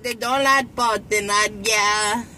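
Cajun French phrase. Shown as a demonstration. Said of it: "teach me to talk French".

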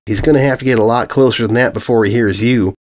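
dry, deadpan ribbing; lightly voiced farm mare, dry. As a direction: tease her with a straight face. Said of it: "the orange dryly said".

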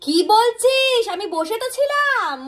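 slow, loud, offended protest; drawn-out indignant disbelief. Real, not acted. Indignant denial of failing.

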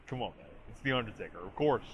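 mildly dismissive, as if it's obvious; deadpan, tossed-off retort; very dry. Retold or imitated. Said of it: "very dry and sort of like".

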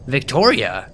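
a mild mock yell of a name; mild call. Mother calling her daughter on the phone, mild yell. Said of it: "she yelled".

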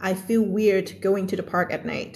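very slow, careful read; slow example sentence. Shown as a demonstration. Teacher reads an example sentence to students, very slowly. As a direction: drag each word out clearly.

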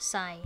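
sai said as one syllable like "sigh"; sai, isolated to show the vowel; syllable demonstration. Shown as a demonstration. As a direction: sound out sai on its own. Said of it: "ตัวนี้อ่านว่า sai".

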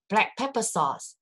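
quick, neat drill reading; each sauce said once, briskly; quick read-through. Shown as a demonstration. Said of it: "我们这里很快念一遍".

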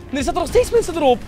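ordinary talk

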